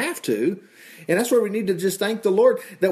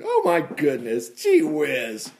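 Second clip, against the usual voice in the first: high-pitched marvelling; amazed exclamation; 6 semitones higher, slower than usual. Real, not acted. Preacher reacts to Boaz's generous orders, amazed.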